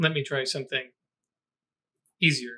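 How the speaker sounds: put-on gentle, soft, aged-sounding older character voice. A storyteller voices a new character after another's magic fails, older softer voice. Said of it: "an older, softer voice um, says".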